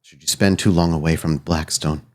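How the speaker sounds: measured, grave offer of a binding bargain; lightly voiced solemn figure. Spirit lays out terms of the binding, lightly voiced solemn figure. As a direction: state the terms with slight solemnity.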